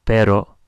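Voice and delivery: pero with one light tapped R; just tap the R once in pero; single R. Shown as a demonstration. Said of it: "And then for one R".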